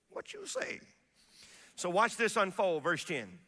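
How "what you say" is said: high call to congregation. Real, not acted. Preacher calling to congregation.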